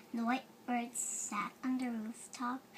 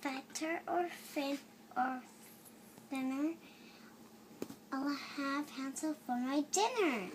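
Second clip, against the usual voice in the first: sing-song witch chant; witch rhyme. Acted.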